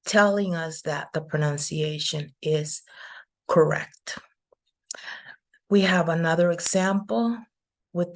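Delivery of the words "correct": "correct" set apart, second syllable stressed. Shown as a demonstration. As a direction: demonstrate "correct" with weight on the final syllable. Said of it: "is before the second syllable".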